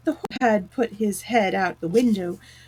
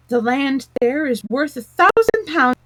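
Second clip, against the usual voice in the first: higher and louder crowd chant; chorus of voices; 5 semitones higher, 5 dB louder than usual. A narrator's reading. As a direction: chant it as many voices at once. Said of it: "the chorus of voices went on".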